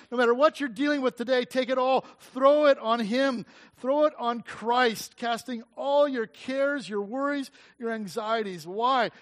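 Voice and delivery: preacher's rising urge; urgent exhortation. Real, not acted. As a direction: push them to hand it over. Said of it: "exhorting congregation".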